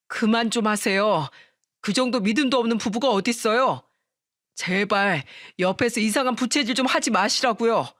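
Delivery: exasperated husband, mildly heated; angry outburst. Acted. Husband snaps at his mother to stop doubting his wife, angry. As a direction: plead firmly with restrained anger. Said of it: "남편은 시모한테 버럭 화를 내고는".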